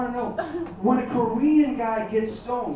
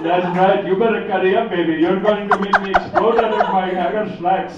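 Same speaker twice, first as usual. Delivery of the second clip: phone sex voice; 6 dB louder than usual. Acted. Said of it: "It would be like".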